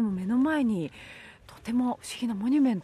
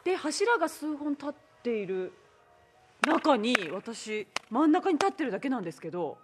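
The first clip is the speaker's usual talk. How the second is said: echoing voice; 6 semitones higher, 5 dB louder than usual. Real, not acted. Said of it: "なんでこんなに反響".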